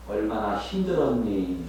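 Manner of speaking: soft, slow caring question; gentle sympathy. Shown as a demonstration. Preacher showing the congregation how to comfort, soft and slow. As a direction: ask tenderly, as if holding their pain. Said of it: "라고 말해요".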